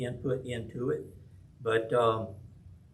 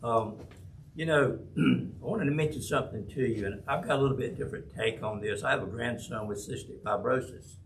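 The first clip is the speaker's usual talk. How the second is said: muffled behind a face mask; through face mask; faster than usual. Real, not acted. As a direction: speak through a cloth mask. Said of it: "Can you hear me with the mask on?".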